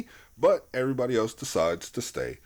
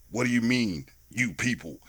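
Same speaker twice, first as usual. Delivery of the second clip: understated challenge, usual pitch; retold Downey line; 2 semitones lower than usual. Downey questioning Ben Stiller over "you people", understated challenge. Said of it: "Robert Downey Junior goes".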